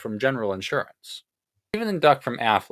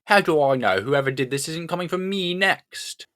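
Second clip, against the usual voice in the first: put-on higher British-accented protest; stupid British accent; 5 semitones higher, 3 dB louder than usual. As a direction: demand it in a silly British voice. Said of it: "in that stupid British accent".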